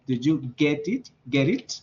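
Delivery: the T of "get" sounded and linked to "it"; T pronounced before vowel. Shown as a demonstration. Teacher explaining the other sentence, T of "get" kept. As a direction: keep the T in "get it". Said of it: "sí tendría que ir la T".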